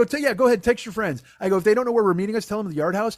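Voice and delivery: retold comic tirade; sarcastic rant. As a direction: egg him on sarcastically.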